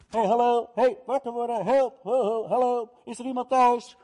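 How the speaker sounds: high calling voice, hey and hallo ringing out. Acted. Friend knocking at midnight calls high for someone home. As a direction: call up to the house for someone to wake.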